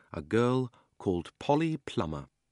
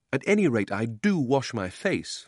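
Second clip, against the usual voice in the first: tag retort; 4 semitones higher, 4 dB louder than usual. Acted. Children squabbling over the wall.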